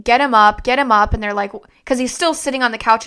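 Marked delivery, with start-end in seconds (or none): 0.0-1.1 louder, urgent repeated command; retold scream. Ordering husband and cousin to lift dad, in a louder urgent command. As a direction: bark the order at the helpers. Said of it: "I'm screaming at them".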